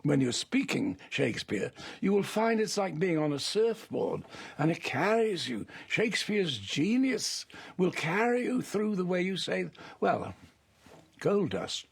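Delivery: a hint of a grand director schooling an actor; explaining verse to a young actor, mildly imitated; Orson Welles. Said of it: "he said".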